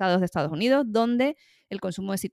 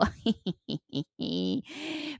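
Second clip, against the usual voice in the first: drawn-out giggle; 4 semitones higher, 5 dB quieter than usual. Real, not acted. Vlogger tickled by the psychedelic trip topic, giggling. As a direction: let out a long string of giggles.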